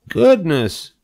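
high-pitched wonder; amazed pig. A narrator's reading. Pig marvels at the spider's legs, amazed. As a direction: exclaim as an amazed little pig.

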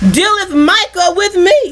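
slow, drawn-out preacher's reading; scripture reading. Acted. Preacher reads verse to congregation, slow scripture reading. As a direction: stretch the key words as you read.

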